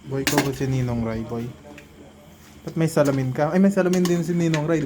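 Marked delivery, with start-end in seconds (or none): 2.6-4.8 excited. Real, not acted. Excited noticing his glasses.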